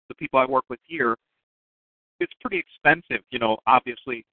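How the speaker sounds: talking through hiccups; speech broken by hiccups. Real, not acted. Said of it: "Excuse me, I have the hiccups".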